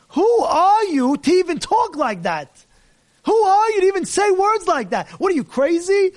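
fiery preacher's rebuke; indignant rebuke. Real, not acted. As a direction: scold him, how dare you. Rabbi rebuking the guy.

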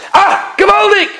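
high-pitched cry of delight; acted burst of joyful amazement; elated exclamation. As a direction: exclaim it in wonder, pitch leaping up. Joyful exclamation at the story's turn.

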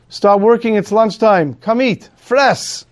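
barking Nazi officer. Acted. Nazi officer tempting starving Jews on Yom Kippur, mocking high order. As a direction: taunt them with the food, sharp and high.

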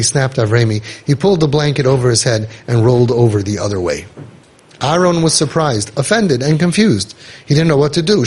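measured read-aloud storytelling; story narration. A narrator's reading. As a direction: read the tale out in evenly phrased sentences.

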